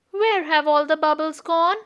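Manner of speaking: a mild cry of surprise; lightly upset, asking out loud; a hint of a puzzled little bear; dismayed cry. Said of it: "he cried".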